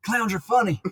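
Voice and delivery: high, hammed-up clown villain voice; Joker. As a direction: play a goofy high-pitched clown. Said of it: "can you do it as a joker?".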